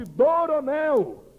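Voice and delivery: calling voice from above. Retold or imitated. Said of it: "Alguém naquela tarde me chamou".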